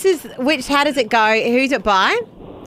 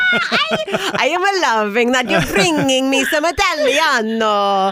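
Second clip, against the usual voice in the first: put-on Italian accent; slower than usual. Host answers in mock Italian accent.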